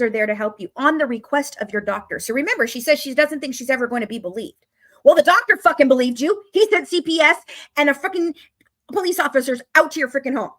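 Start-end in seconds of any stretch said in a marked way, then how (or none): 5.0-10.5 angry outburst. Real, not acted. Outburst at Gypsy.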